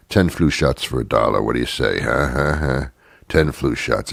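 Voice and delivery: lightly voiced back-alley dealer; shady street dealer. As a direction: sell flu shots out of a coat. Playing street flu-shot dealer.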